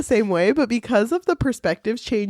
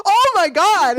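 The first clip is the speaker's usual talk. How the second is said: high, scandalized retold gasp of words; hammed-up high-pitched shock; mock shock; 8 semitones higher, 4 dB louder than usual. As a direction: act out being flustered, voice jumping up. Retold shock at him undressing.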